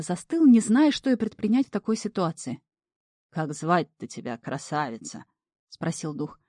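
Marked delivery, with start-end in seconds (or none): 3.3-5.2 lightly voiced devil. Devil flirts with maiden.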